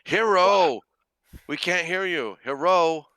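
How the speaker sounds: high, loud mock Asian accent calling out; hammed-up stereotypical Asian accent shouting a name; bad stereotypical Asian accent. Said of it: "I'm hearing that in a bad stereotypical Asian accent".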